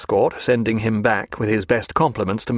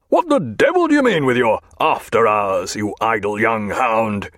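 Jack raging. A narrator's reading. Jack roars at the idle clerk, angry. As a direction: tear into the clerk. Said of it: "he was asking".

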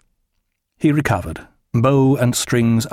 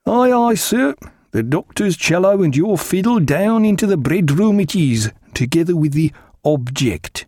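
put-on higher, rough old steward's voice; steward Killick; 5 semitones higher than usual. A narrator's reading. Steward repeating the captain's order, higher and gruff. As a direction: reel the order back like a dutiful sailor.

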